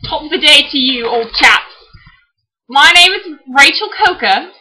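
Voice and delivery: hammed-up British accent, jaunty and emphatic; corny British accent. Sister greets her blog viewers, corny British accent. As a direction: put on a playful, corny British voice. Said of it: "read them in corny British accents".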